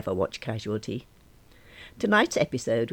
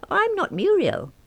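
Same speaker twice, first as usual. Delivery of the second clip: high, slow and emphatic; insistent denial; 5 dB louder than usual. Acted. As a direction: firmly set her straight. Insisting on identity.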